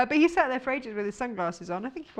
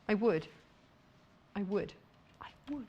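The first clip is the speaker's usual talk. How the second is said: repeated to oneself, getting softer each time; trailing off; 3 semitones lower, 6 dB quieter than usual. Real, not acted. Host insisting she'd remember the fabric, trailing off. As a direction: let it fade almost to nothing.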